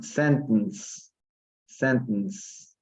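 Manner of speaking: "Sentence" joined up, middle e dropped, SEN-tns; bridged pronunciation. Shown as a demonstration. Teacher models "Sentence" as a bridge, e silent. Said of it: "un puente".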